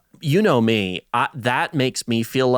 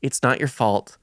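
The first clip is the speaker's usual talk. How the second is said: apologetic. Retold or imitated. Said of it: "but then he's like".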